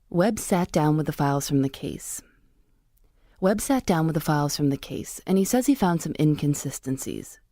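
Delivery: measured, scripted narrator read; podcast narration. Real, not acted. Reporter tracking a script about case files, measured narration.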